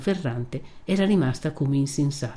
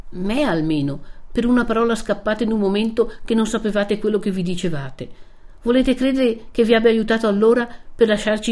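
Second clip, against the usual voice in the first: earnest, insistent persuasion; Renzo, pleading reasonably; 3 semitones higher than usual. Acted. (Renzo che cerca di convincerla)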